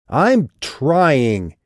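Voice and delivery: high, loud shout. Acted. Calliope shouting after Vikas on the sidewalk, loud and high. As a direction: call it after someone walking away. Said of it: "she shouted at his back".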